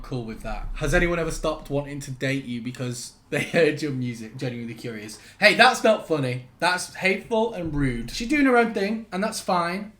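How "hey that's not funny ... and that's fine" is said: high, indignant telling-off; mock scolding. Comedian scolding mean commenters, mock indignant. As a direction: defend her in exaggerated outrage.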